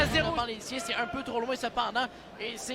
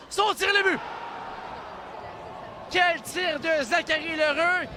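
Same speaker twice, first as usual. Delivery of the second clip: excited sports commentary; 3 semitones higher than usual. Real, not acted. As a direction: shout the goal, then admire the shot. Goal called, scorer praised. (cri du but puis éloge admiratif)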